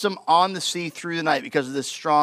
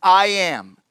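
emphatic paraphrase; 3 semitones higher, 5 dB louder than usual. Retold or imitated. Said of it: "Jesus saying".

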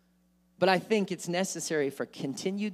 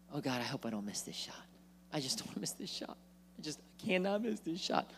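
soft, worried self-talk; a player fretting quietly at the free throw line; nervous; 10 dB quieter than usual. Acted.

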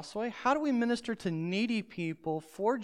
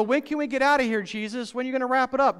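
lightly voiced impatient listener, louder; mock impatient crowd; 4 semitones higher, 4 dB louder, much faster than usual. Preacher imagining the crowd pestering Jesus, mock impatience. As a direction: whine to Jesus to wrap it up.

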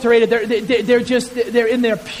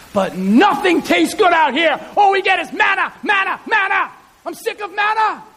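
complaining shout; 9 semitones higher than usual. Acted. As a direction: yell it like a fed-up complainer. Israelites complaining about manna.

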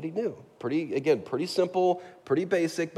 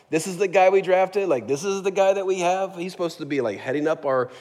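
higher, louder sputtering disbelief; incredulous outrage; 4 semitones higher, 3 dB louder than usual. Retold or imitated. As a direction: vent as if your star recruit betrayed you. Synagogue Jews outraged at Saul.

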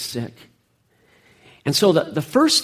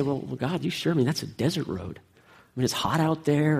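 softer, reluctant pushback to God; mock hesitant protest, voice dropped; hesitant objection; 6 dB quieter than usual. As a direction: imitate someone quietly doubting an order. Voicing a reluctant Philip to God.

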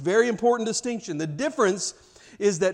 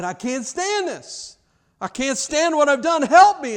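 high, loud desperate cry for help; anguished begging; 9 semitones higher, 7 dB louder than usual. Retold or imitated. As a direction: beg them, breaking under guilt. Judas begs the priests.

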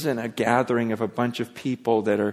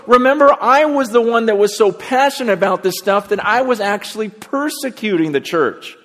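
higher and louder, slowing at the end; fervent boast; 9 semitones higher, 6 dB louder than usual. Retold or imitated. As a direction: drive home the boast and lean on the last words. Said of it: "He goes".

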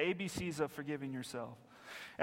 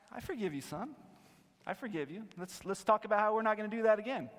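tender father; 4 semitones higher, faster than usual. Retold or imitated. Father comforting his son.

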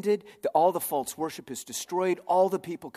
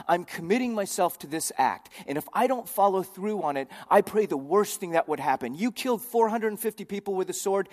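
vowing threat; 3 semitones higher, 3 dB louder than usual. Retold or imitated. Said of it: "this phrase here is what God uses".

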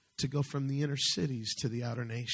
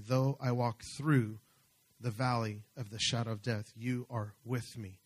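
scripture reading. Acted. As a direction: read the psalm aloud, pausing between phrases. Reads the psalm aloud.

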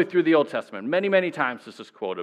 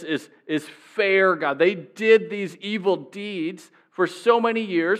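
raised, pleading accusation thrown back at God; accusing God; 4 semitones higher than usual. Retold or imitated. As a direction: fling the words back in God's face, higher and aggrieved. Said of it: "he kind of throws it in God's face".

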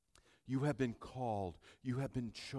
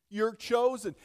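loud, raised preacher's declaration; forceful proclamation; 8 semitones higher, 10 dB louder than usual. Real, not acted. Pastor urging believers to hear him, forceful proclamation. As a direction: proclaim it high and strong. Same words hushed, then proclaimed.

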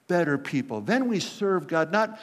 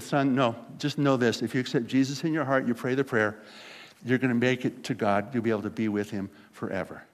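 lightly acted parent, lower and settled; calm parental reassurance; 5 semitones lower than usual. Parent calmly answers boy in story.

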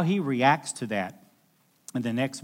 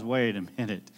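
ashamed realization; 3 semitones lower than usual. Retold or imitated. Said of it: "he realized".

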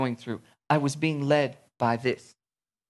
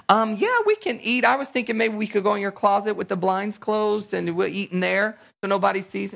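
mock awkward yes; 6 semitones higher than usual. Mock furtive Christian agreeing to lunch.

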